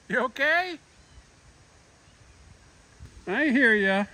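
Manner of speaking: high, sing-song cat-greeting voice; fond high voice talking to Maggie; pet talk. Real, not acted. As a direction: coo up high to a shy cat.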